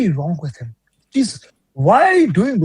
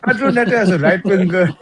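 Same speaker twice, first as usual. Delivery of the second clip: laughing. Real, not acted. Mocking player, laughs heard.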